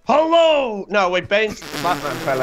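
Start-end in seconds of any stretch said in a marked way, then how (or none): 0.1-0.9 high, loud mock Bane hello; Bane impression. Asked for Bane on the spot, a high, loud Bane attempt. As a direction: attempt Bane, pitched up and louder. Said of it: "Give me your best Bane impression".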